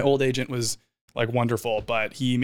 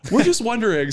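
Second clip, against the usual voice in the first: high sing-song; sweetly innocent up high; imitating her; 10 semitones higher, 5 dB louder than usual. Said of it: "she's like".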